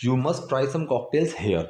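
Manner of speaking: slow, careful alternative; slow variant; slow variant without over. Shown as a demonstration. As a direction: read it slowly without over. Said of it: "ये भी sentence बिल्कुल सही है".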